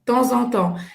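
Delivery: "Temps en temps" with a Z liaison before "en"; com ligação. Shown as a demonstration. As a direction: link "Temps en" as "ton-zan". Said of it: "tem uma até ligação". ("Temps en temps" ligado com som de Z)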